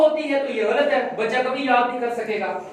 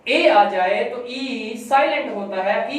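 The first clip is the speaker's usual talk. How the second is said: slow, deliberate teaching of the rule; slower than usual. Shown as a demonstration. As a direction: spell out the rule slowly for the child. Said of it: "ये rule बताएं बेटा".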